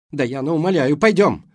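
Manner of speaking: loud, high, pleading cry; desperate plea. A narrator's reading. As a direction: beg her desperately to come. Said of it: "отчаяния в голосе Келли".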